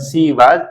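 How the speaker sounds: "she" as see, "was" as vaaz; disfavoured local pronunciation. Shown as a demonstration. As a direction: swap sh for s and open "was" to aa. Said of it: "वरना". ("she" को सी, "was" को वाज़)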